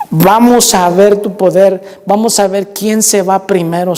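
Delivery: slow, drawn-out appeal to the Lord; prayer to God. Retold or imitated. Worker handing the manager over to the Lord, praying. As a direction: call on God with deliberate, stretched words. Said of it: "le dije al Señor".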